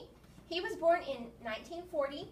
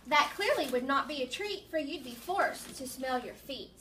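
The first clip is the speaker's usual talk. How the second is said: put-on lilting poem reading for children; poem read-aloud. Teacher reads a funny nose poem to children, poem read-aloud. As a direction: read the rhymes out with a measured beat.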